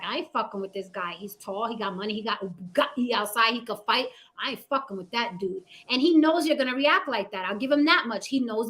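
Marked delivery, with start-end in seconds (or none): 0.0-5.6 cowed muttering. Retold or imitated. Imitating intimidated men sizing up the alpha, softly. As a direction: lower and softer, a spooked guy muttering to himself. Intimidated men's inner thoughts.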